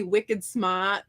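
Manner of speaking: put-on Boston accent, laughing, r dropped. Quoting what someone called her, amused Boston accent. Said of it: "there's, like, Boston North".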